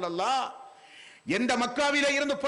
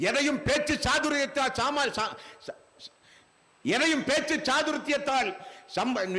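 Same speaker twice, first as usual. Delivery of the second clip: impassioned preaching. Real, not acted. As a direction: preach it to the congregation, phrase by phrase. Preaches to a congregation throughout. (உணர்ச்சிமிக்க மார்க்கச் சொற்பொழிவு)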